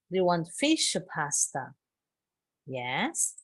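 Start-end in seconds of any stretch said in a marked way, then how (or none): 0.1-1.7 "or" nearly swallowed, no R. Shown as a demonstration. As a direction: glide "fish or pasta" with "or" almost gone. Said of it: "no se pronuncia la R en general".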